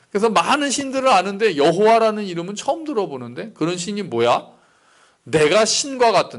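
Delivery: mildly indignant, scornful Pharaoh; a touch of royal outrage; angry Pharaoh. Acted. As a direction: act out a ruler taking offence, lightly hammed-up. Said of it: "그러면서 막 화를 내죠".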